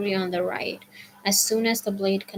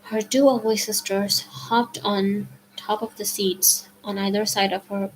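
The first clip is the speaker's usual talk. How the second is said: ordinary delivery, nothing marked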